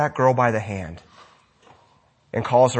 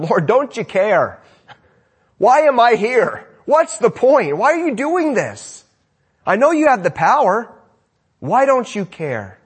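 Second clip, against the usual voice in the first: anguished cry; 7 semitones higher, 4 dB louder than usual. Acted. A suffering believer desperately pleading with the Lord, anguished and loud. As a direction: cry out to God in despair.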